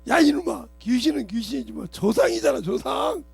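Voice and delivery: 크게 호통치는 아버지; 아들을 꾸짖는 아버지 호통 흉내; father scolding loudly. Retold or imitated. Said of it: "우리 아버님이". (아들을 꾸짖는 아버지, 호통)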